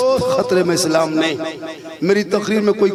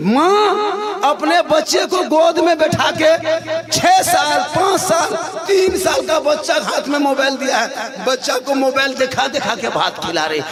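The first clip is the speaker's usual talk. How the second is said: raised, exasperated harangue; indignant preaching; 7 semitones higher than usual. Real, not acted. Preacher deploring mothers feeding children by phone, indignant. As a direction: scold the parents from the pulpit.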